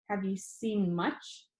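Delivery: slow, flatter delivery, little lift. Acted. Mikkel asks about the glasses, slow and flat. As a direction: ask it slowly and flatly. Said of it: "Her voice sounded a little flatter than normal".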